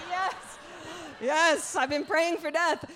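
high, loud eager outburst; hammed-up desperate joy; mock elation. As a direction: cry out as if a wish is finally granted. Mock eager reply to threat.

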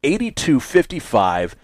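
upbeat call-in announcement; lively DJ read; radio host pitch. Acted. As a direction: sell the phone lines to listeners.

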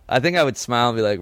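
usual speaking voice

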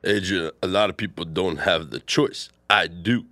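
low Rocky mumble. Acted. Rocky answering Adrian, low mumble. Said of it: "you have the better Rocky".

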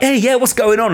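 fake upbeat greeting. Comic mocking himself greeting a fan too brightly, forced chirpy. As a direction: overdo the friendliness to a stranger. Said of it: "weirder to be like".

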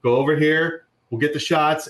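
relaxed, friendly, in charge of the photographers; McConaughey. Retold or imitated. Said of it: "I would do it in a Texas accent if I could".

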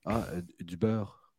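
"du beurre" in a lightly put-on Parisian accent, slow; Parisian waiter accent. A Paris waiter echoes a Quebec customer, lightly mock French accent. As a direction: play the puzzled Paris waiter repeating "du beurre". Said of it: "Il te regarde".

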